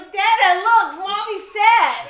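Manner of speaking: loud, high, drawn-out mock child announcement; child calling out. Mom imitating daughter telling dad, loud and high. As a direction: imitate a kid gleefully reporting to dad. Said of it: "And she goes".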